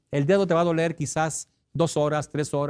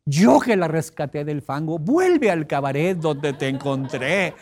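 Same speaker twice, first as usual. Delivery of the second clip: bitter jilted lover; slower than usual. Pretend. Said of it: "no empieces".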